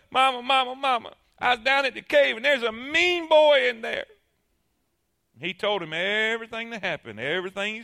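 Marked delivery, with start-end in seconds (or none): 0.1-4.1 a touch higher, hurried plea; boy rushing to mama; upset child. Acted. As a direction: run in and tell mama. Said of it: "runs home to his mama".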